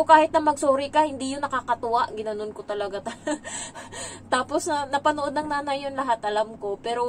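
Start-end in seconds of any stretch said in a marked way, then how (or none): 0.0-2.1 raised, stern scolding voice, loud at the start; retold angry scolding. Nanny retelling how she scolded her ward, sharp and angry. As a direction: scold the child sharply, as it was said back then. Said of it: "malaki talaga yung boses ko".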